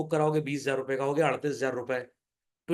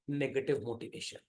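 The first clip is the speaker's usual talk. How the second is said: slow emphasis; 5 semitones lower, 9 dB quieter, much slower than usual. Shown as a demonstration. Teacher stressing key term.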